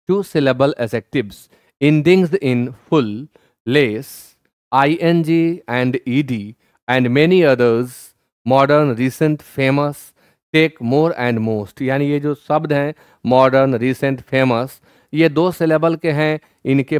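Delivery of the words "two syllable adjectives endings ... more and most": reading the rule out slowly, word by word. Shown as a demonstration. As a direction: dictate the textbook rule slowly. Reads English grammar rule slowly. (नियम धीरे-धीरे पढ़ना)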